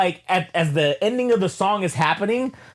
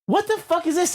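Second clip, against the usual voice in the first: retold shock; 11 semitones higher than usual. Retold dream, shocked question.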